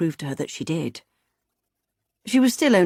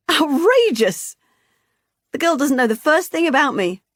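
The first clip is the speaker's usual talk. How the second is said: high, loud, hearty outrage; hearty indignant woman; 9 semitones higher, 6 dB louder than usual. Acted. Vicky scoffing at the girl's claim, loud and hearty. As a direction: play up the jolly indignation.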